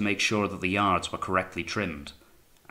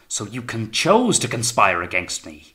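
louder accusing outburst; higher-pitched demand; 3 semitones higher, 6 dB louder than usual. A narrator's reading. Captain accusing Wellard of conspiring, higher-pitched and demanding. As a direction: demand it, rising in pitch and volume. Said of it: "His tone was now higher-pitched".

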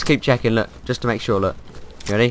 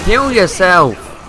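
urgent plea; 7 semitones higher, 4 dB louder, much slower than usual. Real, not acted. Burning, begging a teammate for healing.

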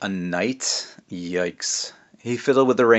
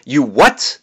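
surprised princess, louder; 4 semitones higher, 7 dB louder than usual. A narrator's reading. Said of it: "the princess said".

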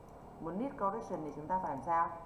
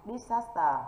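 "Disaster" with the stress on the second syllable, louder and higher; teacher demonstrating "Disaster" stressed di-SAS-ter; 5 semitones higher, 6 dB louder, slower than usual. Shown as a demonstration. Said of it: "đánh vào âm tiết thứ hai".

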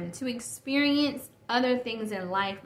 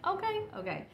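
mock agreement; 11 semitones higher, 5 dB quieter than usual. Mimics exchange with son.

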